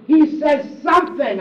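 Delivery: loud, hammering the point home; shouted climax of a sermon point; preaching shout. Real, not acted. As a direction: lift it into a full shout. Preacher's rising emphasis.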